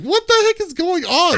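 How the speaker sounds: high-pitched baffled voice; confused high squeak. Retold or imitated. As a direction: squeak it out, totally lost. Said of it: "I'm like".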